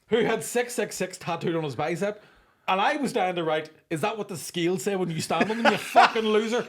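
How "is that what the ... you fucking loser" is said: jeering line breaking into laughter; mock him while laughing; gleeful laughing taunt; laughing insult. Retold insulting reply.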